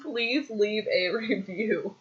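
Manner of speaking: soft, slow, amused model line; slow prompting. Real, not acted. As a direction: spell it out slowly and quietly to be copied. Prompting again after laughing.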